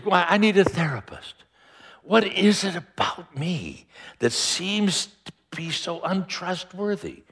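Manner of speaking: a hint of a whiny frustrated God; exasperated God. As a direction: play a fed-up deity venting to a therapist. God voiced as frustrated, needing therapy.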